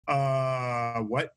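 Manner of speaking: low, drawn-out baffled "uh", then a questioning word; baffled reader. Acted. Reader stuck on a hard word, mock bafflement. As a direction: play lightly dumbfounded, dropping the pitch.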